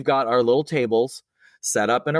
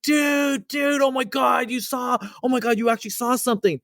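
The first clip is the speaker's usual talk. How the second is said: retold excited shout. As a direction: shout it like you're jumping up and down. Coworkers jumping up and down.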